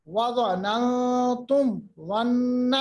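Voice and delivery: وَظَنَنْتُمْ recited slowly, ظَنَّ straight after; mim without delay. Shown as a demonstration. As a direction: sound the mim of وَظَنَنْتُمْ, move directly to ظَنَّ. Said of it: "تم کے بعد فوراً ظن". (میم کے فوراً بعد ظن، تجوید سے)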